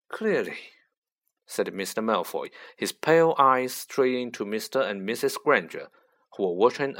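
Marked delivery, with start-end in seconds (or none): 0.1-0.6 cold whisper. A narrator's reading. Lucius replies coldly.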